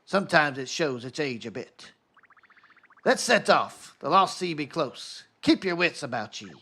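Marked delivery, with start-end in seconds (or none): 3.0-6.5 put-on gruff old sea dog calling out; a light pirate captain voice. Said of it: "I got tired of doing the pirate voice".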